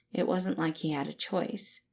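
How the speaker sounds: usual speaking voice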